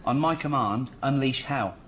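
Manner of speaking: put-on Gladiator line in a Reading accent. Gladiator line to prove his versatility, in a Reading accent. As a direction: deliver the battle cry with a Reading accent. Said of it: "Did you just do that in the Reading accent?".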